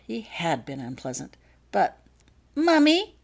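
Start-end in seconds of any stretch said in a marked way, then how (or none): 1.7-3.2 put-on high, loud little girl's call; a small girl cutting in on the grown-ups; child calling out. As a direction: pipe up like an eager child. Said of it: "interrupted Holly".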